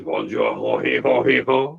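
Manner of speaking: mock French accent, a clumsy stream of French-sounding syllables; bad French accent. Shown as a demonstration. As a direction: ham up a terrible French accent. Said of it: "Every time I do a French accent, it goes".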